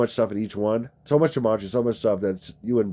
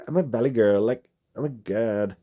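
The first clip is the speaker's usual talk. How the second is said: valley girl impression. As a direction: toss it off like a ditzy valley girl. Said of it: "She's a valley girl".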